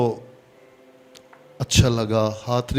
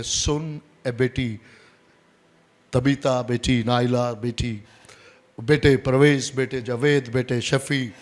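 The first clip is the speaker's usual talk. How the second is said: gentle personal address. Retold or imitated. Preacher voices the Lord calling his children, gently. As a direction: address each one like a parent.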